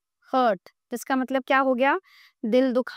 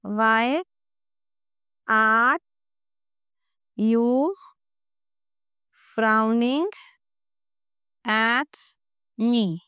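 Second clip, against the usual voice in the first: word-by-word dictation; much slower than usual. Shown as a demonstration. Teacher translating a sentence for students, word-by-word dictation. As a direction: isolate each word with a long pause after it.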